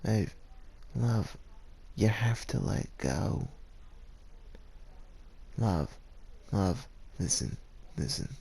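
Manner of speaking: pleading. Acted. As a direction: coax her gently to release him.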